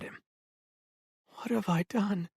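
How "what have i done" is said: whispered. A narrator's reading. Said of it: "he whispered".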